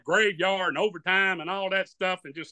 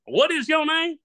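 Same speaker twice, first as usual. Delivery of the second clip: incredulous comedian; 8 semitones higher than usual. Retold or imitated. Comedian on stage repeating his question in disbelief. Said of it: "looks at me and says".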